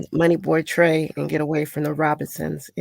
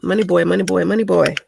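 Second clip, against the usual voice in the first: Candyman voice. Shown as a demonstration. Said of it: "Let me do like Candyman".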